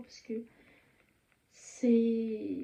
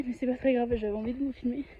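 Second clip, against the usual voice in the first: breathless from running; puffing between words; out of breath. Real, not acted. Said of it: "je suis essoufflée".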